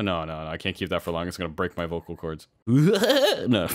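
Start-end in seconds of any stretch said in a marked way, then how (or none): 2.7-3.7 laughing. Real, not acted. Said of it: "that was really bad".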